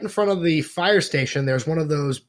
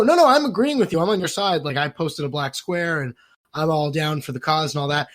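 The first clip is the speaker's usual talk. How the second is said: mock eager ally. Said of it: "Then you go".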